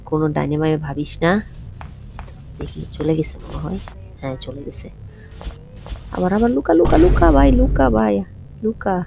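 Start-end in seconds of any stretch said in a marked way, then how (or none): 6.2-9.0 high, loud frantic urging; urgently hiding in panic; panicked. Real, not acted. Hiding from granny in game. (আতঙ্কিত তাড়া)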